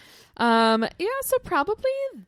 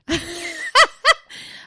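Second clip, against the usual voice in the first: burst of laughter; 7 semitones higher, 7 dB louder than usual. Real, not acted. Laughs at her own answer.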